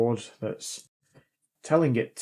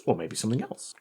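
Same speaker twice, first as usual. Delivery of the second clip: voice going high; 4 dB quieter, faster than usual. Real, not acted. Vlogger reading a viewer's letter, voice sliding up high at the end. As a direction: pitch shooting up at the end. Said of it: "my voice went so high there".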